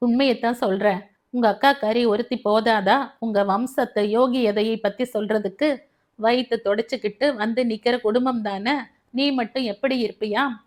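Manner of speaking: quick, flustered taunting; agitated. Acted. Mother-in-law taunts daughter-in-law, quick agitated jabs. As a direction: rattle it off in agitation. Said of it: "படபடத்தாள் Krishnaveni".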